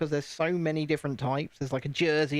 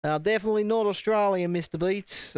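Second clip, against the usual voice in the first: put-on raised Australian accent; 4 semitones higher than usual. Streamer denying being Australian to a viewer, Australian accent. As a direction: answer in a mock Aussie accent.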